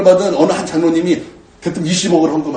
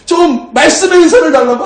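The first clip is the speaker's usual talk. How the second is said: raised, pleading prayer voice; fervent crying prayer; 8 semitones higher, 3 dB louder than usual. Retold or imitated. Pastor retells his tearful prayer, mildly fervent. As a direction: call out to God, begging hard. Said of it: "하나님 앞에 간절히 기도했었어요".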